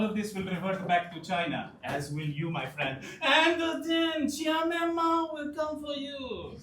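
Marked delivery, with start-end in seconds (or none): 3.2-6.6 slow menacing threat. Acted. Ominous threat in the scene.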